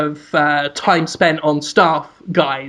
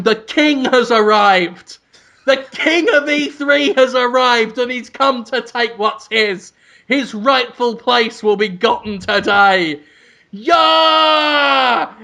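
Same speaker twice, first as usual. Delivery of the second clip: slow, stretched royal proclamation; proclaiming shout; 5 semitones higher, slower than usual. Acted. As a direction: herald a king's arrival, building to a high cry. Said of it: "you're just shouting".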